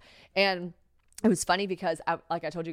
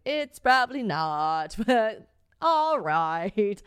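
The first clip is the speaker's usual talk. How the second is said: laughing apology; 3 semitones higher, 4 dB louder, much slower than usual. Retold or imitated. Apologizing for stained sheets.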